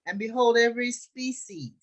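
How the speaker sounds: loud, deliberate scripture reading. A narrator's reading. Teacher reads the Joseph story to the group, deliberate scripture reading. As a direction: read it out slowly in weighty phrases.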